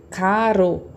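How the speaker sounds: caro with a light tongue-tip tap on the r, slowly; tapped single R. Shown as a demonstration. Teacher contrasts caro with carro. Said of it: "uma palavra bem parecida com carro".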